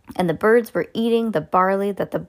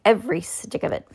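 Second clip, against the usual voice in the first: higher-pitched, satisfied boast; proud boast; 4 semitones higher than usual. A narrator's reading. Mister Egg boasting about his nest, proud boast. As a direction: add the detail with pride. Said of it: "Mister Egg said proudly".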